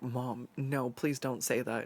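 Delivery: mortified plea. Retold or imitated. Embarrassed by mom.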